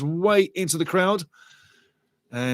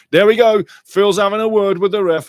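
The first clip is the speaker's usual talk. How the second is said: loud and higher, bursting out; excited outburst; 5 semitones higher, 8 dB louder than usual. Real, not acted. Commentator reacting to the manager confronting the ref, loud and excited. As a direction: suddenly perk up and call it out.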